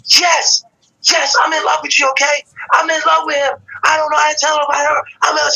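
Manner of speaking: excited confession. Retold or imitated. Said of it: "She starts snapping".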